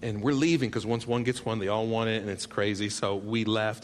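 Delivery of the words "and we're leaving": firm dad voice. Retold or imitated. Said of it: "I looked, I said".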